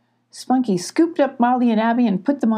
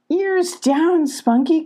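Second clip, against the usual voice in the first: light call; 9 semitones higher, slower than usual. Acted. Abby calls to Spunky, light high call. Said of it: "called Abby".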